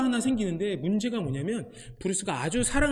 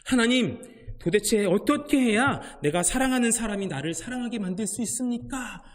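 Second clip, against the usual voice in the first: frustrated plea; 3 semitones higher than usual. Retold or imitated. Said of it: "너무 답답해서 하나님께 요렇게".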